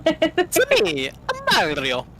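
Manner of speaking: very high, loud cartoon Italian voice; exaggerated high-pitched plumber voice; Mario. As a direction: squeal the game hero's catchphrase. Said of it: "Ah, Mario impressions".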